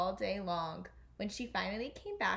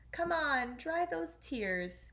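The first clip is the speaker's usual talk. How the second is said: higher, slow soothing fairy voice; tender, higher and slow; gentle; 6 semitones higher, slower than usual. A narrator's reading. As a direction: coax her to stop crying. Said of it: "came a gentle voice".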